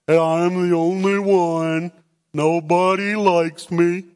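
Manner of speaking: Eeyore moping. Retold or imitated. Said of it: "He pulls out the Eeyore thing".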